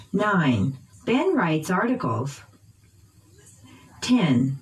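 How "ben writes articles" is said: "Ben" and "articles" stressed by pitch; noun stress. Shown as a demonstration. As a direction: lift "Ben" and "articles", dip on "writes". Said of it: "using pitch change".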